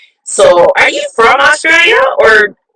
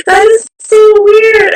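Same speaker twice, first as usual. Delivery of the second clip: high, loud, slow cry of disbelief; shocked outburst; 13 semitones higher, 5 dB louder, slower than usual. Real, not acted. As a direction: blurt it out stunned and loud. Phone just died mid-interview.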